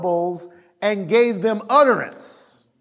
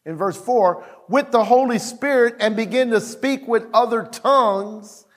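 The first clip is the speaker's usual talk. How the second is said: scripture reading; 2 semitones higher than usual. Real, not acted. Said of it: "he says".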